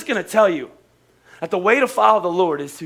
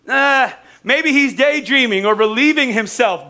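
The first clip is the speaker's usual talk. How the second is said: mocking taunt; 5 semitones higher, 4 dB louder than usual. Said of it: "And then he says".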